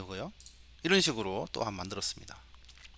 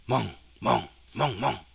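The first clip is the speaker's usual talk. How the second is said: short spoken woofs in a varied rhythm; dog bark imitation. Shown as a demonstration. Teacher varying the dog samples for the computer, imitated barking. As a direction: bark like a dog, changing the pattern slightly. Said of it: "또 좀 다르게 해봤죠".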